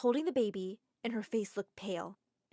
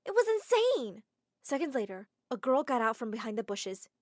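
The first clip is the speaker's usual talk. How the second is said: plain reading voice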